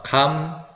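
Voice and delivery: 캄 said long with an open "ah"; open "a" vowel. Shown as a demonstration. English teacher demonstrating the stressed vowel, drawn-out open "ah" in 캄. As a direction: stretch 캄 out with a clear stressed "ah". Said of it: "아로 발음합니다".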